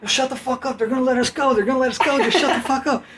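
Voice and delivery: put-on high, pushy Rhode Island accent. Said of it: "he's from Rhode Island, so he had that accent".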